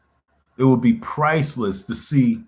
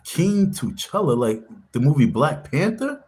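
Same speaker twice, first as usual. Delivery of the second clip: incredulous question; 3 semitones higher, slower than usual. Retold or imitated. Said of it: "They were like".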